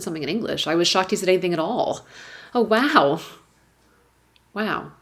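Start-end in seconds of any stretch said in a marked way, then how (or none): 2.5-3.2 louder, higher, delighted surprise; light up at the kind words; happy wow. Retold or imitated. Mother touched that a neighbour greeted them, happy wow. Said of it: "The first wow was happy". 4.5-4.9 sad wow. Retold or imitated. Mother realising how rare kindness is, sad wow. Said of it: "the second one was sad".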